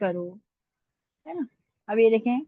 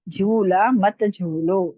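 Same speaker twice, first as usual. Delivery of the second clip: slow dictation; 2 semitones lower, 4 dB louder, much slower than usual. Shown as a demonstration. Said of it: "इस तरह से".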